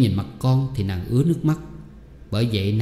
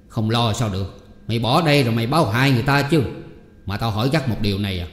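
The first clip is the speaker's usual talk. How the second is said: impatient pressing; faster than usual. Acted. Uncle pressing her hard.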